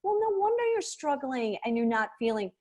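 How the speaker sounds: slowed-down voice. Shown as a demonstration. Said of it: "We slow it down".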